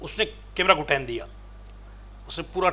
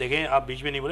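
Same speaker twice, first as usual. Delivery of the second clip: ordinary talk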